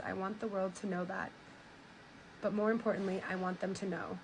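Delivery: quiet, restrained reading of last words; subdued reading aloud. A narrator's reading. Reading a woman's final chapter to viewers, subdued and quiet. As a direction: read it softly and steadily, letting sentences sink.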